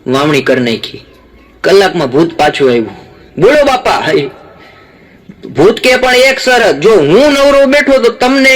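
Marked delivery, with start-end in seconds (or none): 3.4-4.0 higher, eager ghost reporting for work; squeaky obedient ghost. Acted. Ghost reports to the old man. 6.0-8.5 higher, eager ghost laying down terms; keen little ghost making a threat; high-pitched ghost bargaining. Acted. Ghost sets its condition.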